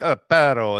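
Perro with a rolled, trilled R, put on a bit loud; mock-fancy Perro, trilling the R hard. Mocking a Spanish speaker, Perro with rolled R. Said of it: "and they roll their R".

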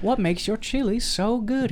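high-pitched mock interviewer; interviewer impression. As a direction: put on a high, inquiring presenter voice. Voicing interviewer in film scene.

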